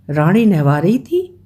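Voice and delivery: a touch of disbelief, rising on थी; amazed question. Retold or imitated. Listener in the carriage doubts the story, mildly amazed. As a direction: ask रानी नहवा रही थी in mild astonishment. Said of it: "किसी ने विस्मय प्रकट किया".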